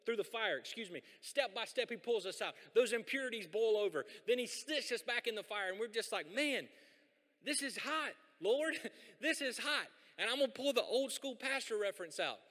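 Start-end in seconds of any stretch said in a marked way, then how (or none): 6.3-9.9 high, half-laughing whine to the Lord; mock complaint. Pastor playing a believer groaning at God in the fire, mock high whine. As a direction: pretend to moan about the heat.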